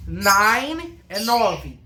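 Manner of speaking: nine slow, set against nove; slow contrast demo. Shown as a demonstration. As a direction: say nine slowly, then nove. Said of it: "entender a diferença". (contraste lento entre nine e nove)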